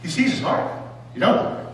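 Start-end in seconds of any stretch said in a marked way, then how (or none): 1.1-1.6 whisper. Acted. Peter sensing Jesus' doubt.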